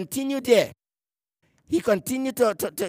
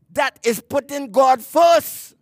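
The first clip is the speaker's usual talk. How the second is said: slow, loud declaration; preaching shout; 3 semitones higher, 3 dB louder, slower than usual. Real, not acted. Preacher proclaiming to the congregation, slow shouted emphasis. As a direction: shout it slowly to the pews. Preacher drives home his point.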